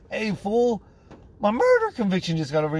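high, fast, excited call up; yelling through vent. Retold or imitated. Prisoner shouting the news up the vent to his friend. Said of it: "he hears us all yelling".

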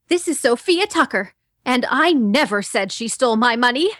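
a hint of a young reporter character. Shown as a demonstration. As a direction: read the line in her character voice. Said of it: "how about if you just said ... in that character voice".

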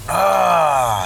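a short mock grunt of anger; retold grunt. Father recalling how he grunted at the kids, short mock grunt. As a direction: imitate a frustrated grunt. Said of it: "I just grunted like that".

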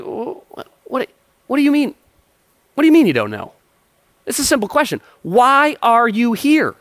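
high, incredulous guard voice, slowing on the last line; a clerk who can't believe the answer; baffled angel guard. Retold or imitated. Angel guard grilling the new arrival, high and incredulous. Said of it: "the guy's like".

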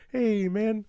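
put-on New Zealand accent. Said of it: "talking in a New Zealand accent".

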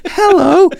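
high, loud character greeting; Mulan. Retold or imitated. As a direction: sing out a big, high-pitched hello. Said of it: "she's like".

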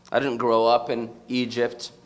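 normal talking voice

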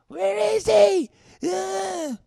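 high, shrieking mock freak-out; panicked scream. Acting out friends freaking out over the missing man, panicked scream. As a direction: scream it loud and stretched, far above normal pitch.

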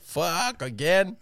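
whiny friend. Retold or imitated. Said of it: "He's like".

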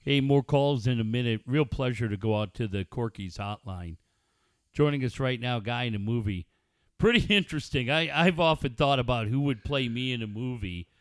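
lightly voiced sports-radio host; host a call-in show, low-key and self-musing; understated radio interviewer patter; Coach John Quintero impression. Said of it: "I'd like to hear Coach talk".

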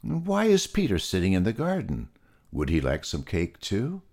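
puzzled kind host; lightly voiced Freddy; Freddy the pig. Freddy asks about Peter.

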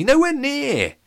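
put-on high, loud girl's voice. A narrator's reading. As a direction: shut him down brightly and high. Jenny's voice, teasing denial.

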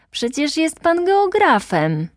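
you can't be serious!; disbelieving protest. A narrator's reading.

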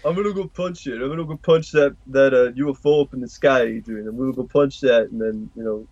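lightly voiced New York boxer; a hint of Rocky talking to Adrian; Rocky impression. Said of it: "sounds like Rocky".

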